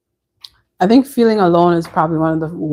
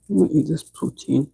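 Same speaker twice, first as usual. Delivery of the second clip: whispered aside; 4 semitones lower, 6 dB quieter than usual. Real, not acted. Aside while eating.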